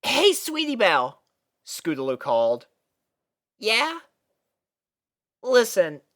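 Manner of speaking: high filly voice calling her back; Scootaloo calling. A narrator's reading. Scootaloo calling after Sweetie Belle, earnest. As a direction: stop her at the door.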